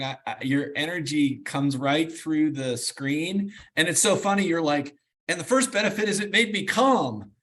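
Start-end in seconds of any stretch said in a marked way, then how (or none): 5.3-7.3 higher-pitched, lively mimicry; playfully imitating an upbeat speaker; upbeat imitation. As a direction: quote her with bubbly energy. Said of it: "You're so upbeat in such a positive way".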